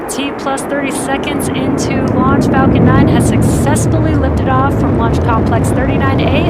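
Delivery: loud and lifted over the roar; excited. Real, not acted. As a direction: call it out over the launch noise. Liftoff commentary over rocket roar.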